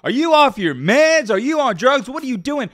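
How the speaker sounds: high, mocking fan voice; lightly voiced skeptical fan; imitating doubting viewers. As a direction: needle the host like a heckler. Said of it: "I know what all you sitting there saying".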